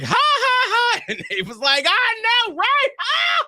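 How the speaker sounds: loud, high fake laughter; mock cackling strangers. Girls and guy at pool laughing loudly, high and hammed-up. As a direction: ham up the poolside guffaws. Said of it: "But they were like".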